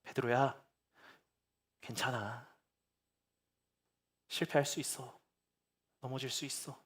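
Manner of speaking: soft, quiet comforting words; tender reassurance. Pretend. 식사하며 베드로를 위로하는 예수님, 부드럽게. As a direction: comfort a friend who failed, gently. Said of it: "큰 얘기 안 하셨을 거예요".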